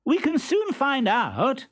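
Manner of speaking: high, slow, put-on wondering; loud Columbine. Columbine teasing the hidden Stentorello, high and slow. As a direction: play dumb loudly for the trunk. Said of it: "exclaimed Columbine".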